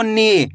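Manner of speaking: नी with a long ee; drawn-out vowel. Shown as a demonstration. Teacher demonstrating the big matra, नी stretched out. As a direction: hold the ee in नी. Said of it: "बड़ी ई की मात्रा को खींच".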